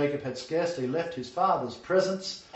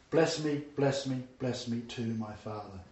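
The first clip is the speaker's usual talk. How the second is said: starts plain, sinks much softer and lower; plea fading to broken whisper; 3 semitones lower, 4 dB quieter than usual. Acted. Esau's last plea to his father, fading to a broken hush. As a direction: let the plea collapse into despair.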